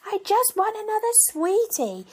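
put-on high, slow sulky child voice, stretching the words; whiny child. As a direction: play a small kid sulking over a sweetie. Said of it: "like a child who's drumming their heels on the floor and going".

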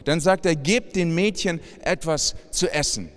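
measured, unhurried Bible reading to the congregation; scripture reading. Acted. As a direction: read the gospel story with gentle weight. Reads Mark 5 aloud.

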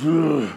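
dying man's gurgling groan; imitated gurgle. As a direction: mimic a groan through a gurgle. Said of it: "he gurgled at me".

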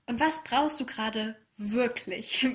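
slow question, leaning on "brauchst", "wirklich" and "du"; stress on brauchst, wirklich, du. Shown as a demonstration. Podcast host asking the listener what they really need, stressing "brauchst", "wirklich", "du". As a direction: ask slowly and press the words "brauchst", "wirklich", "du". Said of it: "Betonung auf brauchen und wirklich und du".

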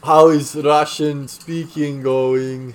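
slow, mock Ukrainian accent. Host asking his friend in mock Ukrainian accent. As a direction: stretch it out in a put-on Ukrainian accent. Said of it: "in a Ukrainian accent".

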